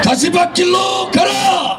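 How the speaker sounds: roaring rallying speech. Real, not acted. Closing rally call and response.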